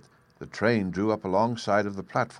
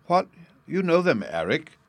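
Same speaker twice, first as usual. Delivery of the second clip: high, loud astonished question; surprised exclaim; 9 semitones higher, 5 dB louder than usual. A narrator's reading. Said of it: "she exclaimed".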